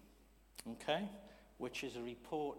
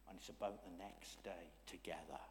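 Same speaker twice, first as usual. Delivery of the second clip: whisper; 5 semitones lower, 6 dB quieter than usual. Real, not acted. Preacher whispering to his congregation, confiding whisper. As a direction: breathe it out, unvoiced and close.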